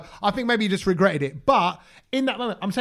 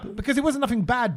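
higher, laughing through the words; laughing backtrack; 5 semitones higher than usual. Real, not acted. To his co-host, caught out and laughing it off. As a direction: laugh it off as you walk it back.

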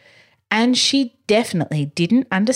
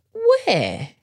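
much higher, curious question; eager where; 11 semitones higher than usual. Acted. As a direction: perk up, eyes searching. Curious child asks.

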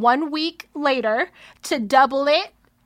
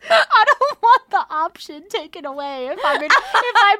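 laughing; 4 semitones higher than usual. Real, not acted. Laughing at her own note.

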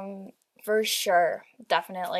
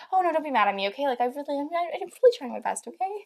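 higher, anxious plea not to be scolded; imitating pleading; 6 semitones higher than usual. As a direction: beg mom not to be mad, pitch climbing. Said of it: "I'm a little bit more like".

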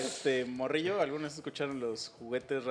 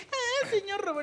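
Spanish dub version. Retold or imitated. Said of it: "en lugar de decir".

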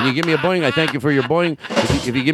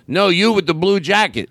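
higher-pitched mock heckle; heckling parrot; 5 semitones higher than usual. Comic retelling a parrot's insult, lightly voiced heckle. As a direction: pick someone out like a cheeky parrot. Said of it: "the parrot goes".

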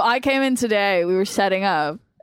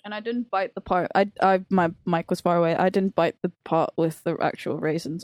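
chewing while talking; 3 semitones lower than usual. Real, not acted. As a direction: mouth full of bagel. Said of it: "I'm gonna bite that again".

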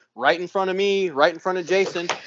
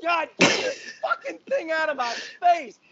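disgusted; 9 semitones higher than usual. Retold or imitated. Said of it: "And I'm like".

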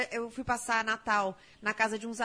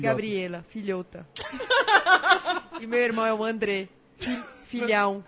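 put-on Peruvian accent, lower and steady; 3 semitones lower, 6 dB louder than usual. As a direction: say it like a Peruvian father. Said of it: "Como é que ele fala?".

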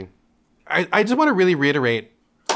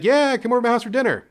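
cheerful dad; 9 semitones higher, faster than usual. Retold or imitated. Dad's cheerful invite.

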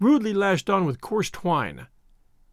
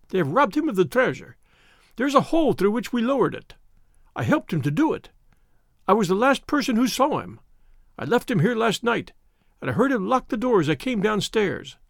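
querulous little man; 4 semitones higher than usual. Acted. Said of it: "a sharp, querulous cry".

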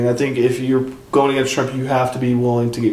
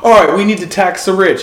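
Bernie Sanders; 5 semitones higher, 5 dB louder than usual. Retold or imitated. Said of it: "he's like".

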